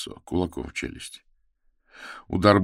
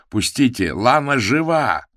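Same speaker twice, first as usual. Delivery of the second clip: much higher, louder, slow on жива; desperate cry; 8 semitones higher, 7 dB louder than usual. A narrator's reading. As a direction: cry out that Лана is alive. Desperate struggle.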